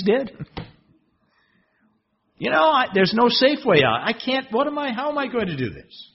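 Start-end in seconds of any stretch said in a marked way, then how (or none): 2.4-6.1 despairing Moses. Acted.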